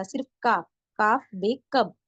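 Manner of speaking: काफ said light, with no throat sound; not from the throat. Shown as a demonstration. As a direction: say काफ simply, keeping it out of the throat. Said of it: "हलक से आवाज बिल्कुल नहीं आएगा". (काफ बिना हलक की आवाज़ के)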